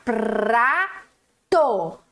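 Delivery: "Prato" with a clear R between P and A; correct "prato". Shown as a demonstration. Teacher gives the right form "prato" to pupils. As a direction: say "Prato" with the R sounded. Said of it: "No meio do P e do A".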